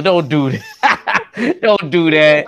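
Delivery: laughing. Real, not acted. Teasing a friend's comment.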